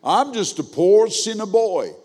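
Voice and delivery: slow, mocking imitation; imitating churchgoer. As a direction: mimic a grown man's drawn-out stock reply. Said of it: "a grown man say that".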